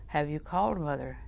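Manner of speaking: soft, careful question. Retold or imitated. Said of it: "lower your voice".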